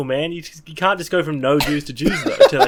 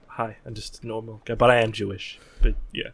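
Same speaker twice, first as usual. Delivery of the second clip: Jewish guy voice; 5 semitones lower than usual. Acted. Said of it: "so I have to do the Jewish guy voice?".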